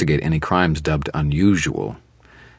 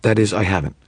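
much higher, hurried backpedal; flustered woman; 5 semitones higher than usual. Acted. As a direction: catch yourself mid-sentence.

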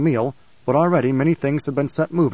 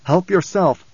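raised, curt command; firm order; 5 semitones higher, 3 dB louder, slower than usual. A narrator's reading. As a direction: order it without sympathy. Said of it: "Leto ordered".

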